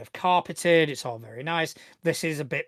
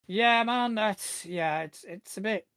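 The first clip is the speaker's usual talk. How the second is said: lightly voiced guard, higher at first; security guard; 5 semitones higher than usual. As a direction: sympathize haltingly as the guard. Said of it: "he's gonna kind of go".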